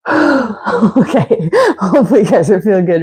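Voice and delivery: quick, breathy laugh under the line; laughing through the words. Real, not acted. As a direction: chuckle while checking in on the class. Winded, laughing during stretching.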